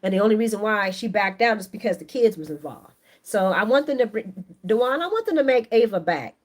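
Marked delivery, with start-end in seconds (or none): 4.6-6.4 crying out the plea with real feeling; passionate outcry. Real, not acted. Begging the writers to bring back fierce Ava, crying out. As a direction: let the wish burst out.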